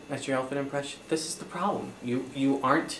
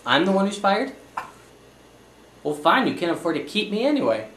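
loud, higher indignant protest; indignant outburst; 5 semitones higher, 5 dB louder than usual. Acted. Fired accountant protests loudly to his bankrupt client. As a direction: fling it back at her, offended.

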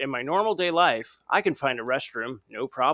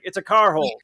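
higher, louder dopey cartoon dad voice; Homer voice; 6 semitones higher, 5 dB louder than usual. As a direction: say it proudly like a dim cartoon dad. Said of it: "He's like".

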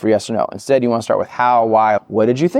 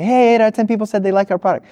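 much higher, hammed-up boast to the boss; mock proud bragging; 12 semitones higher, faster than usual. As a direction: sell it like you're thrilled with yourself.

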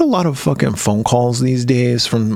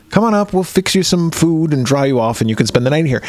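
lightly British hosts; 3 semitones higher than usual. Retold or imitated. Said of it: "they're like".

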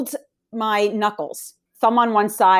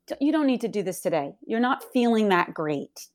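softly voiced inner coaxing; lightly imitated voice in the head; little inner voice; 5 dB quieter than usual. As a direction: let yourself off gently, a little quieter. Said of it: "another little voice said".

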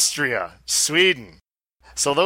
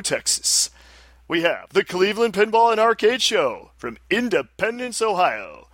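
announcer voice; 2 semitones higher than usual. Shown as a demonstration. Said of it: "announcer voice".

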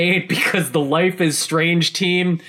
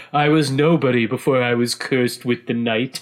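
laughing through a mock brooding hero line; 4 semitones lower than usual. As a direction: send up the cursed-hero cliché, half laughing. Mocking cliché hero line.

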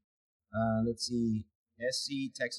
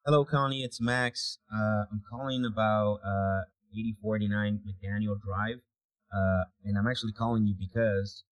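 voicemail voice; 3 dB louder than usual. Real, not acted. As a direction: leave a friendly voicemail message. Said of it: "we'll just leave the cliffhanger voicemail".

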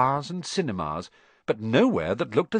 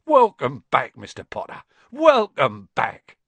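tearful welcome; 6 dB louder than usual. A narrator's reading. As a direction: welcome him with tears in the voice.

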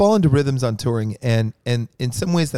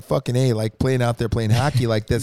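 put-on Canadian accent. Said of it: "That was my Canadian accent".

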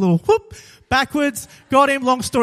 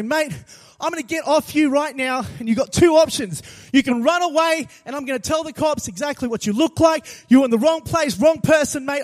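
mildly raised, firm warning; retold angry yell; 3 semitones higher than usual. Preacher retelling his warning to the mugger, mildly angry yell. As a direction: lay down the law, a touch heated. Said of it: "I just yell back at him".

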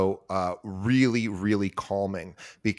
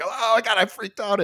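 higher-pitched mock panic; retold freak-out; 10 semitones higher than usual. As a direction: replay the panic, voice pushed up high. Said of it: "but I'm yelling".

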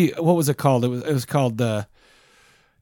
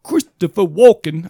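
put-on Brooklyn accent; 3 semitones higher, slower than usual. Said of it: "that was my Brooklyn accent".

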